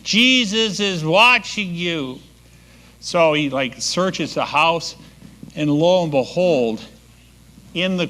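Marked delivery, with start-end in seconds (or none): 0.0-2.2 slow warning pitched higher; the same eerie warning, now higher and drawn out; a hidden voice, higher and slow; mysterious voice, higher. Acted. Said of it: "and he hears again".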